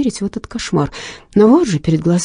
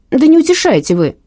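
much higher, louder shout; 9 semitones higher, 6 dB louder than usual. Acted. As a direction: yell it, overwrought. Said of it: "крикнула Инга". (громкий крик на шефа)

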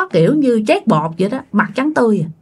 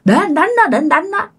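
dazed demand; 6 semitones higher than usual. Retold or imitated. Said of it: "ba ngơ á các bạn".

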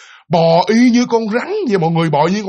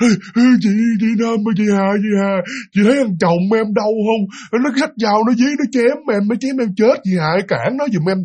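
higher, urgent begging from the crawling figure; ghostly pleading; 3 semitones higher than usual. Retold or imitated. Crawling ghost woman begs Hà, higher and urgent. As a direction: beg her to stop the husband.

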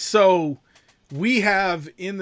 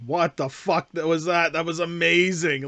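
louder, emphatic retold amazement; amazed reaction; 6 dB louder than usual. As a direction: relive being blown away, louder. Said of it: "walking out of the theater going".

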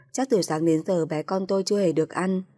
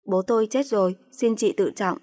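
raised, indignant plea for respect; irritated retort; 3 semitones higher than usual. Acted. Wife tells sister-in-law to respect her dead father, indignant. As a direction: push back hard but hold it together. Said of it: "tôi bực tức nói".

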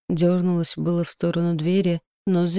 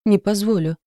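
громкий протестующий вопль; выкрикни наперекор; завопить; 3 semitones higher, 4 dB louder than usual. A narrator's reading. Стажёр вопит, продолжение. (завопить в протесте)

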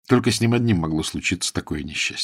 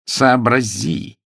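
moaning plea; 3 semitones higher, 3 dB louder, much slower than usual. Acted. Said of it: "простонал мистер Превин".

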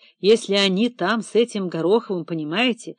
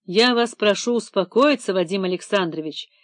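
decisive, calm request; firm. Acted. Vitaly firmly calms panicking director. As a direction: settle him down firmly. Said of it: "решительно произнёс Виталий".

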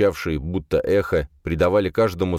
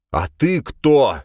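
slow, loud, hoarse croak; 8 semitones higher, 5 dB louder, much slower than usual. Acted. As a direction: croak it out, voice nearly gone. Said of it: "прохрипел он, почти потеряв голос".

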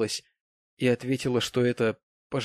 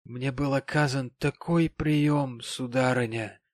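lightly voiced sentimental gentleman, drawn out; maudlin tipsy gentleman; 3 semitones higher than usual. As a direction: play a touch of tipsy emotion.

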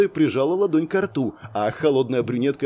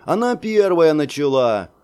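put-on childish voice; 4 semitones higher, 6 dB louder than usual. A narrator's reading. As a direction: fake whiny child yelling it. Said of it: "притворно детским голосом выкрикнул Тим".

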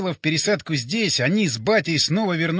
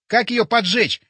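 higher, breathless urgent question; out of breath; 5 semitones higher, 4 dB louder than usual. A narrator's reading. Borya to the others about lighting the paper, breathless. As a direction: ask it as if short of breath. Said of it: "задыхаясь".

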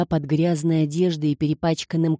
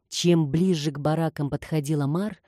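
ordinary delivery, nothing marked

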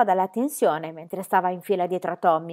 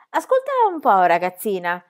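stern teacher; 6 dB louder than usual. Acted. Teacher addresses Pippi.

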